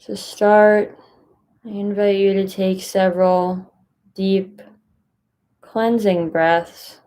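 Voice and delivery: calm, unhurried guidance with long pauses; guided meditation. Acted. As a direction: gently guide listeners into stillness, leaving space between phrases.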